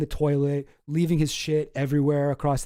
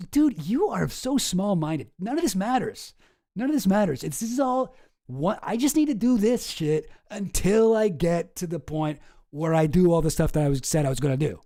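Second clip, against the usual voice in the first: dismissive. Retold or imitated. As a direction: brush off the complaint like a smug roommate. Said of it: "he's just like".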